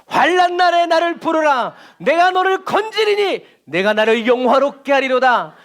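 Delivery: high, slow, commanding proclamation; ringing, stretched-out divine decree; voice of God. Shown as a demonstration. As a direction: declaim it like God calling to the people. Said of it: "정말 하나님의 목소리처럼".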